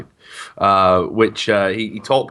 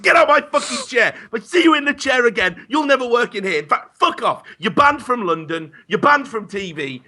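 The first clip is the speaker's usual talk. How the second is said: very high-pitched hammed-up tirade; monstrous diva rage. TV monster banishing runner from his chair, mock diva rage. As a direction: rant as a spoilt star sacking staff. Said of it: "the more of a monster you become".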